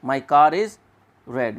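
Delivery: R sounded between "car" and "is"; linking R. Shown as a demonstration. Teacher repeats the example for students, linking R. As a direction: say "car is" as "kaa-riz", then "red". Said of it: "रे वो तभी बोलते हैं".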